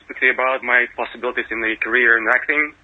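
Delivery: attempted American accent, still vaguely foreign; best American accent. Aspiring actor approaching Spielberg for an audition, attempted American accent. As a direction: speak in your best American accent with Eastern European traces. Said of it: "speak to me in your best American accent".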